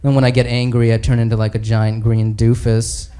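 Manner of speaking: low, halting, embarrassed confession; Hulk. Acted. Hulk admitting his powers to the other heroes, low and sheepish. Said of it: "he's talking to Thor and Captain America".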